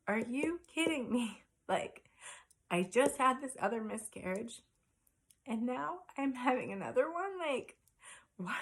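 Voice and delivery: stunned, reliving the bad news; retold disbelief. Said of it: "I was like".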